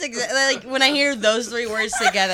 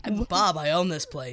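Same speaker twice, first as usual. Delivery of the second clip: light tired cartoon dad voice; a hint of a weary burger-joint owner; Bob Belcher; 3 semitones lower than usual. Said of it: "she does Bob's Burgers".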